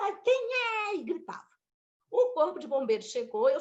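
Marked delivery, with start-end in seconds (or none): 0.0-0.9 pained question. Retold or imitated. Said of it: "Aí eu falei".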